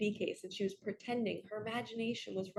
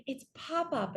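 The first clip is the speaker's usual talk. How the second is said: high little girl naming her pretend friend; little niece voice; 7 semitones higher than usual. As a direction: proudly show off Pop-Up like a four-year-old. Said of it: "she would have said".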